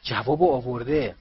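eager exclamation; excited. Acted. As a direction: blurt out that the answer has come. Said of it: "هیجان زده گفت".

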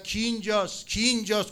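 loud, high repeated call; imitated searching shout; retold shouting. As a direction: shout out to whoever is there. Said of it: "هی داد زد".

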